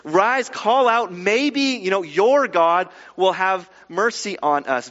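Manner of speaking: lightly acted captain's telling-off; mild berating. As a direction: scold a sleeper a little. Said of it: "the captain kind of berates Jonah a little bit".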